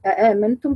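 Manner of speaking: "أآمنتم" opening on two glottal stops, a-aamantum; added questioning hamza. Shown as a demonstration. Teacher listing the readings, "أآمنتم" with added hamza. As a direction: sound both hamzas fully at the start of "أآمنتم". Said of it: "قرأ بزيادة همزة استفهام".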